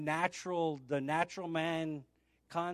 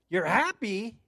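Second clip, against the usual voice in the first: mock surprise; 4 semitones higher, 5 dB louder than usual. Acting caller's puzzled reply.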